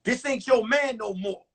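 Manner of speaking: loud, fast menacing mock threat; fake robber text. Son texting his girlfriend as a fake robber, loud and fast. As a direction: ham up a thug's warning. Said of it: "I text her back".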